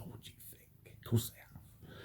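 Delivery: imitating a neighbour in a whisper; very soft, whispered mock reply; retold whisper. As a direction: whisper it like a confidential aside. Neighbour confiding gossip, retold.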